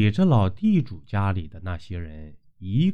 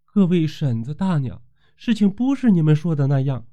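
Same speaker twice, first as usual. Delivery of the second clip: a touch of tearfulness; 5 semitones higher than usual. Acted. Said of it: "绣娘此时眼里含着泪说".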